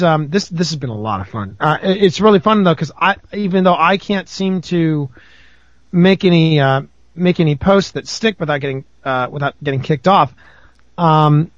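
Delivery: normal talking voice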